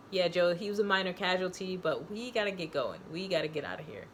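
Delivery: breezy mocking of Tommy's offhand tone; mock casual. Mocking Tommy's shrug-it-off line to Joe, mock casual. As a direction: toss it off like it's nothing. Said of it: "Like, as if it's nothing".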